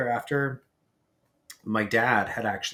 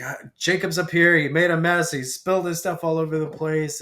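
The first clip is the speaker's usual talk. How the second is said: higher, louder tattling on a brother; retold protest; 5 semitones higher, 5 dB louder than usual. Teenager telling parents about brother's mess, retold protesting. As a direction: blurt it out in your own defence, re-enacted.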